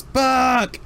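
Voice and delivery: high, loud call across the yard; officer yelling for his partner Buck across the debris. Acted. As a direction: yell the name to reach him.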